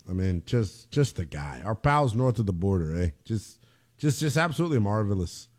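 low, lightly put-on Canadian accent. Host gushing over pals north of the border, mock Canadian accent. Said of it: "I could pass for a Canadian".

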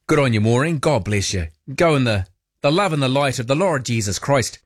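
put-on light Irish accent, blessing the caller; a hint of Irish, warmly blessing the caller off air. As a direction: slip into a gentle Irish lilt like a kindly priest. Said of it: "I broke into an Irish accent there".

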